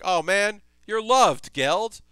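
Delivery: high, loud, gushing praise; slow, high, loud fond gush. Retold or imitated. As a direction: coo it like something adorable. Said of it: "And it's like".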